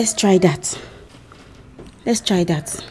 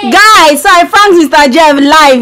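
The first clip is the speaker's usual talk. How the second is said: excited; 3 semitones higher, 4 dB louder than usual. Real, not acted. Announcing prank win.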